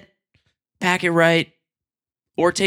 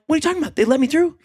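high incredulous protest; 11 semitones higher, much faster than usual. Retold or imitated. Own protest, retold.

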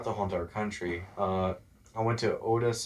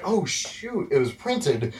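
a mock panicked gasp of surprise, higher up; retold oh shoot; 9 semitones higher, 5 dB louder, much slower than usual. Retelling how the family found out they were printed, in mock surprise. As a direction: play the sudden realization of a forgotten newspaper story as a light joke. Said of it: "And we're just like".

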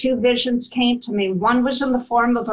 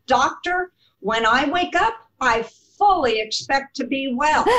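energetic retort; 3 semitones higher than usual. Retold or imitated. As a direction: fire it back with all your energy left. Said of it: "I shot back with every ounce of energy".

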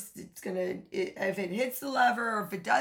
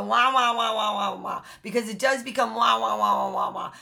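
mock whining wah-wah; 4 dB louder than usual. Mocking complaining.

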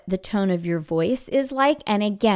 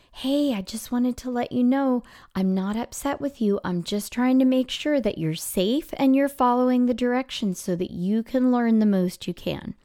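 gentle reassurance; 2 semitones higher than usual. Acted. Teacher to a child pulled aside after class, gentle reassurance. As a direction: reassure them kindly, lightly acted. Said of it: "pull that child aside and kinda be like".

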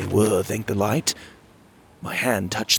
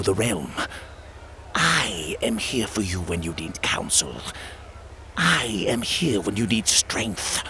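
coaxing inner voice; 3 dB quieter than usual. Acted. Inner voice soothes and controls.

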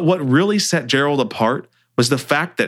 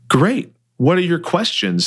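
faking confidence; 6 semitones higher than usual. Acted. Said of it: "faking confidence".

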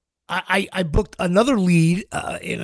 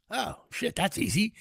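soft aside, as if thinking; private inner thought; 2 semitones higher, 11 dB quieter than usual. Retold or imitated. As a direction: drop the volume for a retold realization. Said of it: "in my head, I'm thinking".

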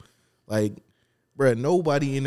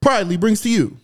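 ringmaster; 14 semitones higher, 8 dB louder, slower than usual. Acted. Podcast intro announcer.

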